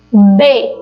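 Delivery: B said briefly, stopped at the lips; B as a consonant. Shown as a demonstration. Teacher showing the class the letrinha B, said as a short lip sound. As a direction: say B with both lips touching. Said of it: "eu vou falar aqui agora a letrinha".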